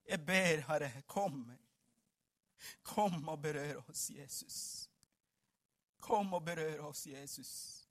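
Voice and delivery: low, soft pleading prayer; hushed prayer. Acted. Preacher asking Jesus to touch them, hushed low prayer. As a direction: let each phrase sink away into a hush.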